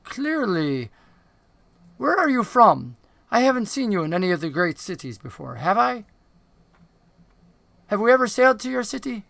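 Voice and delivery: lightly voiced goblin, lilting questions; inquisitive dark goblin. Dark goblin asking a stranger where he is from, lightly voiced and probing. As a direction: question the stranger with pitch lifting on key words.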